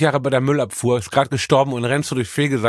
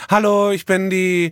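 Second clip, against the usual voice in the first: slow, high, bubbly influencer intro; lightly played influencer hello; 5 semitones higher, slower than usual. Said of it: "ein Influencer den Account von".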